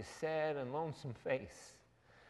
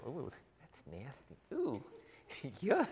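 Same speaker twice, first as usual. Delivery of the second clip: disgusted disciples. Retold or imitated. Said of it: "they go".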